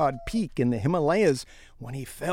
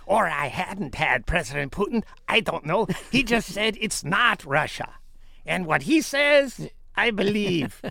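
Trump impression; 4 semitones higher than usual. Quoting Trump at press conference.

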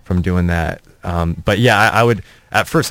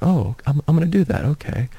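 mock eager, higher; a higher, eager "I'm gonna do that"; eager reply; 7 semitones higher, 3 dB quieter than usual.

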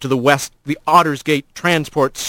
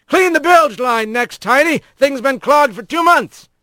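the boss's higher put-on voice, giving orders; gruff straw boss; 10 semitones higher than usual. Straw boss ordering Rat to the bilge, higher bossy voice. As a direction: hand Rat the chore, bossy.

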